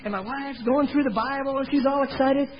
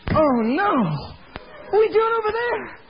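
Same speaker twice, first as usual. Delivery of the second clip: much higher, worried wife; wife's alarmed high voice; 10 semitones higher than usual. Retold or imitated. Wife hears where he's been, high alarmed voice. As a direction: voice the wife panicking at the news. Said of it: "My wife says".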